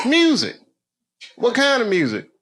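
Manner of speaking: a short mock reply in a high, clipped voice; mock interview answers.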